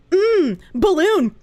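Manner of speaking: drawn-out hum, then one stock word; imitating a soundboard-like streamer; imitated NPC streamer. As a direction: slowly mimic a livestreamer's canned reaction. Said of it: "I could probably do, like".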